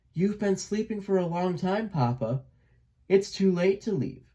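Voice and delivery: calm, careful son. A narrator's reading. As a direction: break the news to father gently. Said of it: "Elmer answered carefully and calmly".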